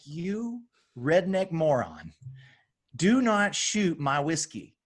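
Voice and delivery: a friend scolds him for shooting good whiskey, slow mock anger; imitating an enraged friend. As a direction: play the furious bourbon snob, slow and pointed. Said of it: "with just rage, absolute rage in his eyes".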